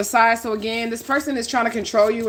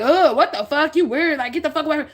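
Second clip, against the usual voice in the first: disgusted southern folks; 7 semitones higher than usual. Retold or imitated. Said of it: "and then people was like".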